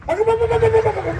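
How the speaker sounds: high, startled calls of baba; high alarmed exclaiming. Real, not acted. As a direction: cry out in mock alarm. Host exclaims at a player's move.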